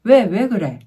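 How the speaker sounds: loud, testy questioning; irritated parent snapping at a child; prickly. Shown as a demonstration. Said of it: "이거랑 많이 차이가 나요".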